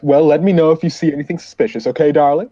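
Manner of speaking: lightly voiced chummy security man; over-familiar officer. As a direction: breezily sign off to an old lady. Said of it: "He goes".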